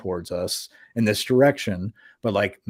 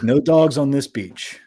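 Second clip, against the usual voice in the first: mild mock holler, slower and higher; retold holler; 4 semitones higher, 5 dB louder than usual. Stranger repeating his beach rule to a dog walker, mock holler. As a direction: imitate a stranger calling out a rule, louder. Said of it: "he just starts hollering".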